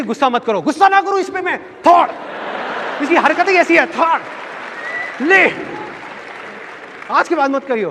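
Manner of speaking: high, loud flustered mother voice; mother begging the father to calm down, pitched high; pleading mother. Retold or imitated. Mother pleading with angry father, high and loud.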